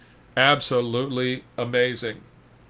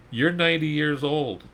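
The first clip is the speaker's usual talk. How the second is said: incredulous folks; 4 semitones higher than usual. Retold or imitated. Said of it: "can you hear these folks".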